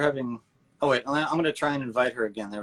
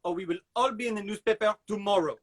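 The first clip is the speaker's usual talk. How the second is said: frazzled dad; 7 semitones higher than usual. Retold or imitated.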